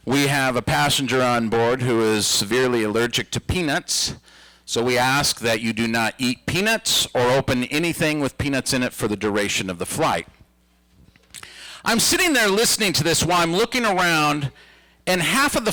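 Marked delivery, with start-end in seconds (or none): 0.1-10.3 flight attendant announcement. Retold or imitated. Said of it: "the flight attendant has gotten on the intercom and said".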